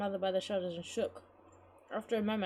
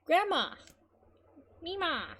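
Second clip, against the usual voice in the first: high-pitched, urgent calls; alarmed calling; 9 semitones higher, 3 dB louder, slower than usual. Acted. Girl calling to collapsed grandmother, alarmed. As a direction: cry out for her, pitch leaping up.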